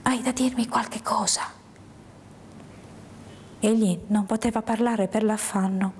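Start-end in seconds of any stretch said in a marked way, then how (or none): 0.0-1.4 hushed question, lightly whispered; sottovoce. Acted. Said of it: "domandai sottovoce". (domanda sottovoce)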